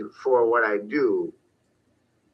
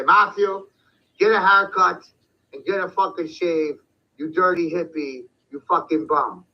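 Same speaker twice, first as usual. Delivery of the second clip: a hint of a scornful preacher, slightly higher; mocking churchgoers; 4 semitones higher than usual. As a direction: sneer it like a judgy churchgoer. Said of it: "mainstream Christians will look at me and say".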